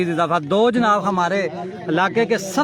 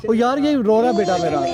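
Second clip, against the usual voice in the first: calling out; 4 semitones higher than usual. Real, not acted. Commentator calling out to the crying boy, raised. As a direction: call out to comfort him over the noise.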